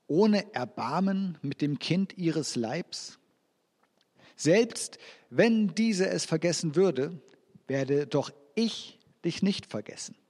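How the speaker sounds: slow, deliberate Bible reading; scripture reading. Acted. Preacher reading Isaiah to the congregation, slow scripture reading. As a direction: read the verse slowly to the congregation.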